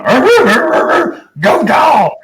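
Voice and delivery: crying yell. Retold or imitated. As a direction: wail like a crying fan, then yell the cheer. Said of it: "he was crying when he went".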